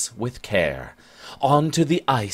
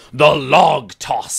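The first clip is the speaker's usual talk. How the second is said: with conviction; 3 semitones higher, 6 dB louder than usual. Acted. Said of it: "with so much conviction".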